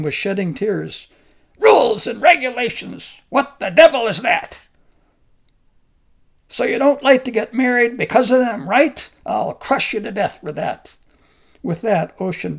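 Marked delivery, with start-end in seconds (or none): 1.6-11.0 high, loud angry shouting; furious scorn. Acted. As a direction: rage at the very idea of rules. Giant mocks the monk's rules.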